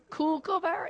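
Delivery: Kookaburra? said the American way, KOOK-uh-bur; a light mock American accent on the bird name. Teasing Americans, a mild American accent. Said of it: "I know you Americans say kook".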